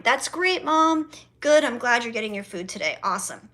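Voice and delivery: forced cheer. Retold or imitated. To her mother about the Chinese food, forced cheerful politeness. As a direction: fake a chipper reply. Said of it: "in a lighthearted way".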